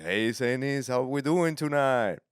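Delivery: loud, high club announcer greeting. Retold or imitated. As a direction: call out to the crowd, stretching it slowly to a high finish. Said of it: "The announcer's like".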